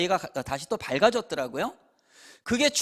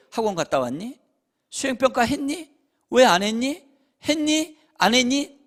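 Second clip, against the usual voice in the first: rapid-fire pushy questions, higher and louder; nagging parent; 5 semitones higher, 5 dB louder than usual. Retold or imitated. Pastor imitating parents nagging a teenager, pushy and loud. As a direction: badger the child about homework.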